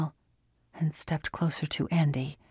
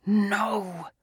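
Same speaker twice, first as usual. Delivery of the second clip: shout; 4 semitones higher than usual. A narrator's reading. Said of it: "A shout echoed through the room".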